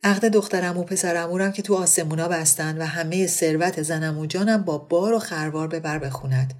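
hammed-up joking offer; clowning. Monavar clowning to her friend about a bride. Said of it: "با لودگی گفت".

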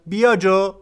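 loud, high summoning yell; sharp shouted order from a mother; mother's shout. A narrator's reading. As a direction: yell for the child to come at once. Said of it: "داد زد".

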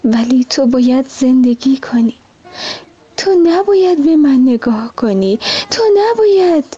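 pressing harder on نباید each time; growing urgency on تو نباید; sadly insistent. Acted. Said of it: "با ناراحتی گفت".

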